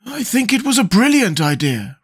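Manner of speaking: high, approving scarecrow voice; pleased storybook Scarecrow. A narrator's reading. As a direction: remark it with high-pitched approval. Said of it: "remarked the Scarecrow approvingly".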